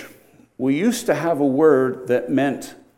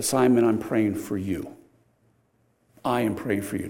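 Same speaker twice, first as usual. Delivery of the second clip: tender reassurance. Acted. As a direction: say it gently to a friend. Jesus reassures Simon.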